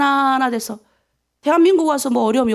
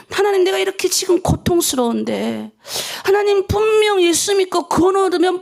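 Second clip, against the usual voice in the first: pleading prayer; 4 semitones higher than usual. Acted. Acted complaint prayer to God.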